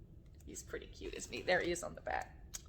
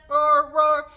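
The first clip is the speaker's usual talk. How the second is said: two loud sung-out roars; lion roars; 5 semitones higher, 13 dB louder than usual. Shown as a demonstration. Teacher leading lion verse, loud rhythmic roars. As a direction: roar twice on the beat. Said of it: "hear the lions roaring".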